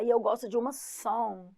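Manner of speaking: song with the g barely said; soft final g. Shown as a demonstration. Teacher showing students how to say it, song with a subtle g. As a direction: let the g of song fade out. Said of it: "pronuncia song".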